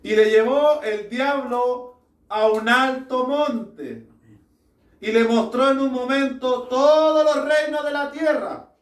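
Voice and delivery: deliberate, projected Bible reading; emphatic preacher reading a verse aloud; scripture reading. Real, not acted. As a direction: proclaim the passage, stretching "todos". Reads Luke aloud to congregation.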